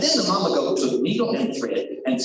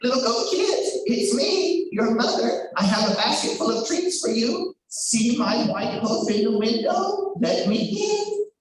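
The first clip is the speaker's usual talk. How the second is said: lightly raised, coaxing mother voice; a hint of sweet mother voice; 5 semitones higher than usual. Wolf at the door, coaxing the kids in a mildly sweet voice. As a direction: coax them to open, lightly sweet. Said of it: "sounded like their mother's sweet, soft voice".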